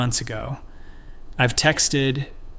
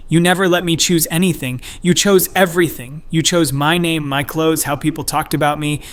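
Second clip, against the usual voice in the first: raised, higher and louder, hurt son lashing out; angry teen outburst; 4 semitones higher, 4 dB louder than usual. Acted. Son confronting his mother on the driveway, raised angry voice. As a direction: throw every accusation back at her.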